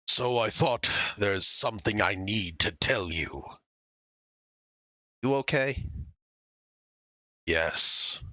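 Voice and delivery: low, gentle character voice. Acted. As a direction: read the texts as a shy girl. Reads a character's text messages aloud.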